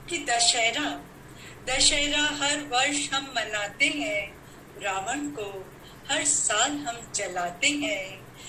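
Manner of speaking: questioning verse, paced out phrase by phrase; poem recital. Acted. Poet asks gathering why Ravana returns each year, declaimed verse. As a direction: declaim it, pausing after each line.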